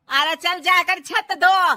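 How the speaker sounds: sharp order. Acted. Mother-in-law ordering bahu.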